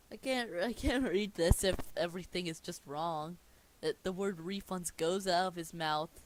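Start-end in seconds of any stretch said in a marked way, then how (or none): 0.1-3.4 real frustration with louder bursts; exasperated. Real, not acted. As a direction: complain in exasperation at a bad script. Reader exasperated by botched script.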